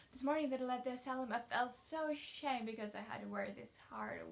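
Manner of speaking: eager, lightly voiced girl; chatty young girl. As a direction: talkative orphan girl, rushing on. Anne speaking in a read story.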